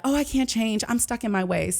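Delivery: high-pitched imitation of a reluctant client; mock helplessness. Coach voicing people uncomfortable with change, mock helpless. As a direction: imitate someone giving up, starting high.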